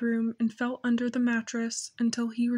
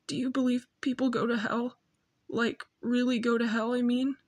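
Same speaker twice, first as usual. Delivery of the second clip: hushed question. Acted. Boy asks father, hushed.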